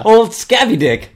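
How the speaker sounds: squeaky mocking jeer; high mock taunt. Mocking nickname, pitch jump.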